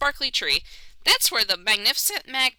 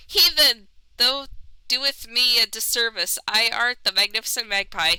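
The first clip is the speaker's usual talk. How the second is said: pompous bird ruler. Acted. Magpie ruler scolding the heathen in grand archaic speech. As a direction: declaim like a vain royal bird.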